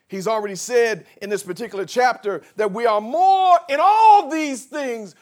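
preaching at full force. Acted. Pastor rousing the congregation, full-force preaching.

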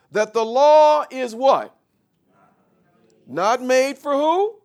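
loud, high preacher's climb; full-force preaching. Acted. Preacher driving the point home to the congregation, loud and rising. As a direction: build it up like a pulpit crescendo.

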